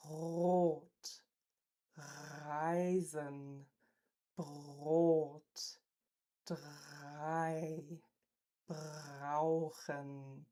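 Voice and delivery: Rot, Reisen, Brot, drei, brauchen with a rolled uvular R; R in Rot, Reisen, Brot, drei, brauchen trilled at the back. Shown as a demonstration. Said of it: "The uvular trill".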